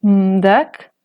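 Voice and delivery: mdak with the pitch rising. Shown as a demonstration. Teacher repeating the rising-tone word, rising. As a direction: let mdak climb upward. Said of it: "Otras palabras con tono ascendente".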